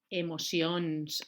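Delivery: Emocions dicho muy despacio; slow reveal. Shown as a demonstration. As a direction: alarga cada sílaba de Emocions. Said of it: "reveals the word". (la mestra revela el títol, molt a poc a poc)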